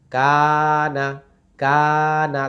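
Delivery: কানা with a long held কা and a short না; stretched first syllable. Shown as a demonstration. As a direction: sustain কা, then a quick না. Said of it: "কাতে টান".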